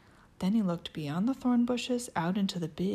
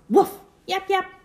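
yappy chihuahua voice; 13 semitones higher, 10 dB louder than usual. Acted. Yapping dogs.

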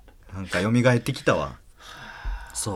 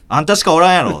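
remembered accusation; 8 semitones higher, 10 dB louder, faster than usual. Retold or imitated.

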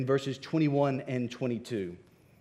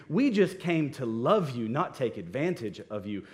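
mock-apologetic, with pointed emphasis; dripping with sarcasm. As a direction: act out Paul's sarcastic confession of weakness. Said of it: "words here are dripping with sarcasm".

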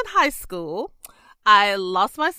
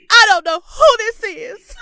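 stern Granny; 10 semitones higher, 7 dB louder than usual. Retold or imitated. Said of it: "she said".

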